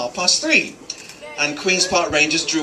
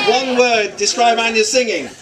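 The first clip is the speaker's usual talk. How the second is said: higher-pitched call to a crowd; 4 semitones higher, 3 dB louder than usual. Real, not acted. Speaker prompts guests to describe Anya's singing, calling out. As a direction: call the question out to the whole room.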